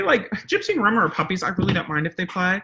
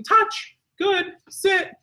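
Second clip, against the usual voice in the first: normal command tone; much slower than usual. Shown as a demonstration. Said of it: "my normal tone for".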